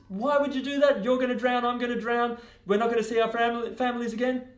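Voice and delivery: very high, loud dismay; panicked accusation. Acted. Stung frog facing drowning with the scorpion, high panicked reproach. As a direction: wail the reproach in alarm.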